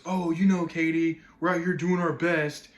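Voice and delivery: lightly voiced fireman on TV; a hint of a plain-spoken fireman; imitated fireman. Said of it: "He just goes".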